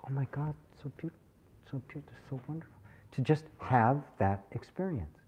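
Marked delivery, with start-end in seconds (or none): 0.1-2.7 softer, fast, gushing wonder; breathless awe. Shown as a demonstration. Teacher demonstrates pure awe at beauty, soft and fast. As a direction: rush out the words in hushed amazement. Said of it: "to look at beautiful".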